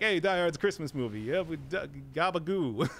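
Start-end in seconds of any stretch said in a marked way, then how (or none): none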